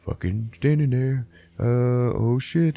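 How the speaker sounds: mock freeze on being caught; startled burglar.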